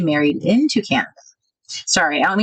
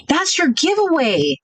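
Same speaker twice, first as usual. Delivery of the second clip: ordinary talk, nothing marked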